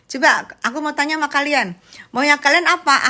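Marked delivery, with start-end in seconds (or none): 2.2-3.0 higher and louder, demanding what they want; exasperated outburst. Acted. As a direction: throw the question at the viewers, fed up. Repeats louder to viewers. (teriak kesal pura-pura: maunya kalian apa)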